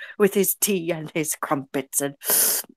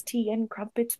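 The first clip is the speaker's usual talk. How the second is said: clipped wartime posh; 11 dB quieter than usual. Pretend. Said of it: "I am Anton".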